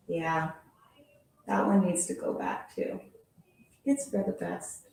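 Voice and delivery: lively storybook read-aloud; animated picture-book reading voice; reading to children. Acted. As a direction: read it like story time for kids.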